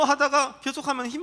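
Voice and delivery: ordinary talk, nothing marked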